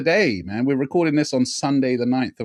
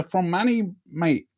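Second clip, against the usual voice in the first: badly faked Manchester accent; attempted Manchester accent; 4 semitones higher, 3 dB quieter than usual. Host naming rapper's hometown, half-hearted Manchester accent. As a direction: have a poor go at a Mancunian accent. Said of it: "I can't do the accent".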